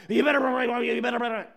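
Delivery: attack dog bark. Acted. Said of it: "he sounds like this terrifying attack dog".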